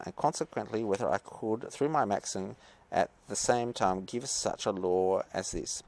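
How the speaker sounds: put-on reading Kant in a light German accent; a hint of German accent on the quote; lightly German-accented reading of Kant; slight German accent. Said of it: "I'm gonna put on a slight German accent for this".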